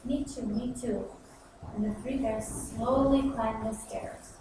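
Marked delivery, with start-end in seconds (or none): 0.0-1.1 put-on slow, small baby bear voice; a lightly voiced timid little cub; gently, like a tiny bear; wee voice. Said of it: "said in a wee voice".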